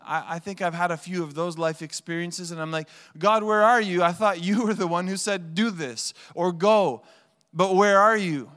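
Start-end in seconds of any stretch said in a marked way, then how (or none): 3.2-8.5 loud, pleading call upward; anguished plea, raised voice; desperate cry to God. Retold or imitated. Pastor voices desperate prayer.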